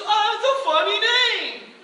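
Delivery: loud, high, slow stage jab; mocking showman. Performer mocking Lenny's name, loud. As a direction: tease like a cheesy host.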